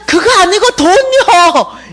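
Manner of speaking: high, slow, stretched shout; heartfelt protest. Retold or imitated. She inwardly corrects her own answer, high drawn-out cry. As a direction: protest loudly, dragging the last word. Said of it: "중심에서 진짜 하고 있었어요".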